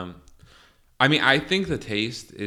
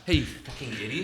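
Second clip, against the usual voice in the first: mock rude, laughing; 4 semitones higher than usual. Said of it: "I wanted it to sound like".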